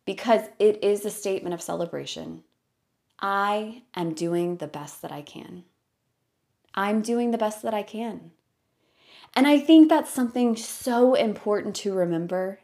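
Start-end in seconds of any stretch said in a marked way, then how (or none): 3.2-8.3 soft, gentle self-affirmation, celebrating; loving affirmative tone. Shown as a demonstration. Teaching the listener her teacher's mantra, softly loving. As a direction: say it like a kind celebration of yourself. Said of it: "you say it in the most loving, affirmative, friendly tone".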